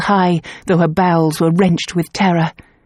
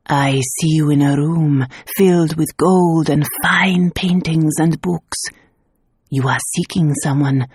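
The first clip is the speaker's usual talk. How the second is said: trance-like seer. Acted. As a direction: speak as if seeing it. Clairvoyant in trance.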